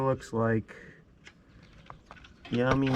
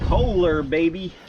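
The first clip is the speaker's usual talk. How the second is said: higher and louder brand cheer; excited cheer; 6 semitones higher, 7 dB louder, slower than usual. Real, not acted. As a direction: hype it up like a fan. Proud of real oil filter.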